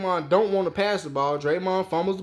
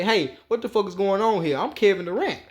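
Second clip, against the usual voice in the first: imagined Kevin Durant rant; 4 semitones higher than usual. Pretend. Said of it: "You should have approached them ... and say".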